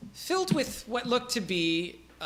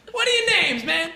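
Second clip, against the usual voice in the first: much higher, laid-back dude voice; Dale the peasant; 10 semitones higher, 4 dB louder than usual. Acted. Peasant Dale introduces himself, high and chill. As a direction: shrug it off easily. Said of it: "he's like".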